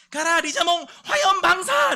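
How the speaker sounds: very high, loud battle yell; trainer's attack command. Acted. Sergeant ordering his pretend monster to attack, yelling high. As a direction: shout the attack like an anime trainer.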